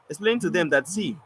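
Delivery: composed, even-voiced retelling; calm explaining. Poet explaining his wordplay to critics, calmly. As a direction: explain patiently to an upset listener. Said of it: "I was calm".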